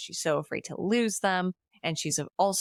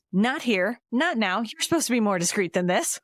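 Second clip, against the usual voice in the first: mock scolding; 3 semitones higher, 3 dB louder than usual. Voicing sister scolding her husband.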